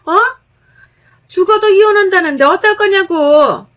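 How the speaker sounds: high, loud berating on the phone; mother-in-law yelling at daughter-in-law over the phone, angry and loud; angry scolding mother-in-law. Acted. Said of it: "시모에게 전화가 왔고 욕 한 바가지를".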